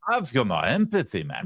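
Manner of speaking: mimicked Jamaican lilt, lightly done; mock Jamaican accent. Host copying the politician's clip to name it, mock Jamaican accent. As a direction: imitate a speech in a put-on Jamaican accent. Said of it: "Are we thinking Jamaican or maybe Bahamian".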